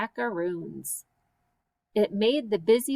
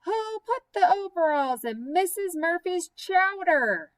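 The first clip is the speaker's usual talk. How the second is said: higher, louder call across the room; a louder, higher demand for an answer; 8 semitones higher than usual. Acted. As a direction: call it out to the whole table. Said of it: "so she said it all the louder".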